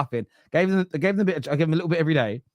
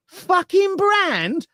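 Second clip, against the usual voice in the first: grumpy dismissal; much slower than usual. Retold or imitated. Grumpy older generation voiced.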